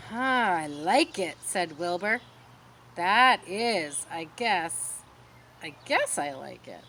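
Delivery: not quite sure he likes it; doubtful and fading; unsure. Acted. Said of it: "He sounded a little bit unsure".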